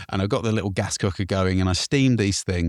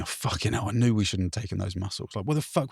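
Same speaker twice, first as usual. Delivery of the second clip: inner panic; 5 dB quieter than usual. Retold or imitated. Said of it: "I was thinking".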